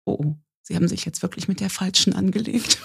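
deadpan child's warning, half acted; son's calm warning. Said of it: "atmete ganz tief und guckte den Mann an und sagte nur".

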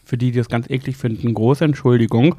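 talking while chewing; mouth full. Real, not acted. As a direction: speak through a mouthful. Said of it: "Ich esse gerade übrigens, falls man mich gerade kauen hört".

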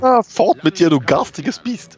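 hoch und theatralisch verstellt; theatralische Figur. Acted. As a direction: wie ein Märchenheld, der ein Ungeheuer verjagt. Gastgeber spielt Begrüßung als Figur. (übertrieben verstellte Stimme)

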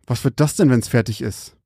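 barely holding back rage; hissing through teeth. Acted. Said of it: "zischte er zwischen seinen zusammengepressten Zähnen".

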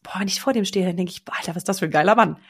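confiding slang; chatting to best friend. Shown as a demonstration. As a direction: gossip to your best friend. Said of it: "Wie würdest du es erzählen".

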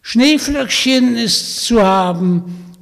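put-on high, loud croaky old witch voice; croaking witch. Witch inviting Vanya home, croaking and sly. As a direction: play the sly old hag inviting him along. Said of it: "sagte die Baba Yaga".

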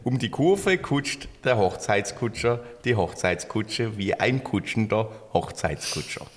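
put-on tongue twister in a light Swabian accent, slow; own Swabian accent. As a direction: recite it slowly with a touch of Swabian. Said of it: "weil ich's in meinem Akzent gesprochen habe". (Zungenbrecher langsam mit leichtem schwäbischem Akzent)

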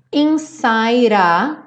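inside said insai-ra with a flapped D. Shown as a demonstration. Teacher showing students a flapped D, linked smoothly. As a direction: flap the D and roll into a. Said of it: "o D do inside virou rarará".

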